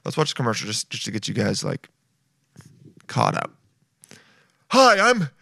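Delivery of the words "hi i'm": lightly voiced pitchman, a bit higher; chirpy salesman greeting, mock; My Pillow guy impression. Host mimics the pillow salesman's ad greeting, lightly voiced. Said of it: "what is his name?".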